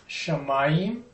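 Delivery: "shamayim" stressed on its second syllable. Shown as a demonstration. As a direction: say "shamayim" leaning on "ma". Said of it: "the accent's on the second syllable".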